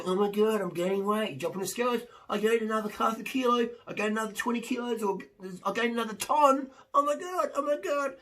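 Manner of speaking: high, rising mock panic at the scales; panicked dieter. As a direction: freak out over every kilo. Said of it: "in your head going".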